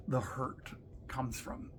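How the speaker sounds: dropped to a hushed whisper; a sudden hushed aside to the viewer. Real, not acted. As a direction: breathe it out as a secret. Climax of the point about hurt.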